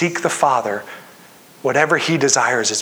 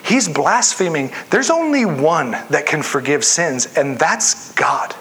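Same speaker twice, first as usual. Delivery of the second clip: scandalized scribes. Retold or imitated. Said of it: "They said".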